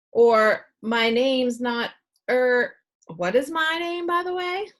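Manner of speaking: muddled doctor asking his own name; absent-minded doctor. A narrator's reading. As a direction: trail off, forget your own name.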